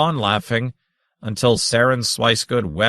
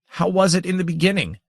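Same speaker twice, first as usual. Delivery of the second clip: high, fast bleating question; 9 semitones higher, faster than usual. A narrator's reading. Saren bleats his question at the grandmother, high and fast. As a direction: blurt it out in a rush. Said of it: "Saren bleated".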